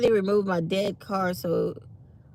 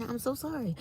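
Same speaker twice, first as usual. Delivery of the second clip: yawning; 12 semitones higher, 6 dB quieter than usual. Real, not acted. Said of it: "don't wanna see me yawning".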